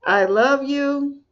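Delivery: slow, tender I love you; slow self-affirmation; affirmation read aloud. Shown as a demonstration. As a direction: say it to yourself, slowly and kindly. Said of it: "Read this out loud".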